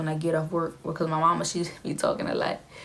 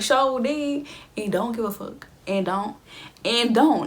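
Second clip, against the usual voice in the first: high opening, emphatic defiant sign-off; playful mimicked sass; sassy little girl imitation; 4 semitones higher, slower than usual. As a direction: quote a cheeky catchphrase with attitude. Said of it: "that little girl that snatched her wig up".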